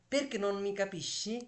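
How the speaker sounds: slow model sentence. Shown as a demonstration. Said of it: "তুমি কেন আমাকে বুঝো না?".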